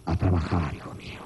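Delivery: a tired dad groaning his way out the door; a father telling his son he's off to work; weary father. Retold or imitated. Father leaving with a strained face.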